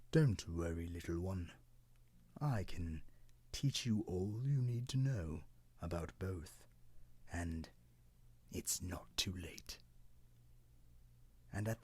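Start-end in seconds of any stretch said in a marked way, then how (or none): 0.1-9.8 very gentle. Acted. Old cedar comforts the crying cloud, gently. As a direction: soothe the little one gently. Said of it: "said very gently".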